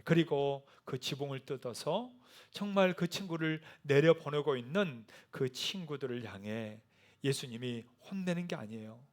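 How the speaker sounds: usual speaking voice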